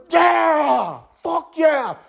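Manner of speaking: high, whooping fuck yeah; gamer cheer. Retold or imitated. Viewers cheering the war like gamers, high and whooping. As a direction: cheer like a kid winning a video game. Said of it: "like it was a video game".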